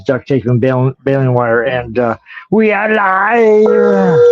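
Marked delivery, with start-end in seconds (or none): 2.5-4.2 very slow drawn-out broadcast call; announcer voice. Acted. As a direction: stretch it like a show announcer. Announcing going live.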